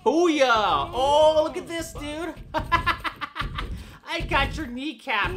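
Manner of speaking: loud, high laughing triumph; gloating laugh. Real, not acted. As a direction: cackle over the win.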